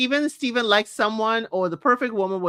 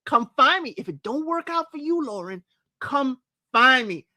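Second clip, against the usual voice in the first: flirty player line; 4 semitones higher than usual. Retold or imitated. Imitating Steven hinting to Lauren, mock flirty and higher. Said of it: "That's what that line told me".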